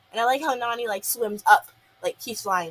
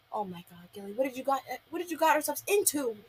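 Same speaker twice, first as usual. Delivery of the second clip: mock exasperation; 2 semitones higher, 5 dB quieter than usual. Molly, arms crossed, scolds Gil for the mess, mock-exasperated. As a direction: imitate a fed-up friend under the breath. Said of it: "she's crossing her arms like".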